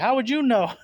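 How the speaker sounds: teasing imitation of a sceptic; mock skeptical listener. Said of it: "You're probably like".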